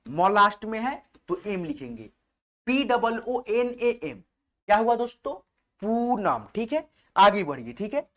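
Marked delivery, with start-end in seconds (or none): 2.7-4.2 letters spelled out slowly one by one; slow dictation to students; slow spelling. Shown as a demonstration. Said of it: "spelling letters out for students".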